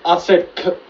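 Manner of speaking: loud despairing rant; yelling in frustrated rage; raging gamer. Real, not acted. Raging after losing.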